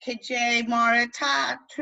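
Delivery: "tattoo" with the final OO stretched; slow phrase, drawing out the end of "tattoo"; long fada vowels. Shown as a demonstration. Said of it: "practice them in words that you know".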